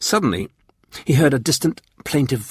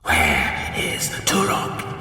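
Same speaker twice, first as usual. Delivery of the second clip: low, very slow, harsh alien warlord; 7 semitones lower, 4 dB quieter, much slower than usual. A narrator's reading. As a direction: menace in every slow word. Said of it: "his voice harsh".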